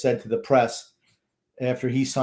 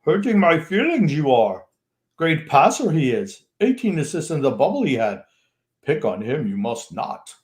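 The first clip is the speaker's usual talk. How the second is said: Yoda voice; 3 semitones higher, 3 dB louder than usual. Pretend. Cohost shows how to read the Yoda comment, in a so-so Yoda voice. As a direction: put on a Yoda voice with a strained timbre. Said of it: "you could do the Yoda accent".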